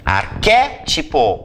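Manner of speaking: "Arquétipo" slow, leaning hard on QUÉ; stressed antepenultimate. Shown as a demonstration. Teacher counts syllables for students, stretching the stressed QUÉ. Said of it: "última, penúltima, antepenúltima, proparoxítona".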